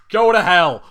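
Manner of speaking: a furious reader shouting at the villain; angry outburst. Real, not acted. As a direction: blast it at the character in real disgust. Reader snaps at the story's villain.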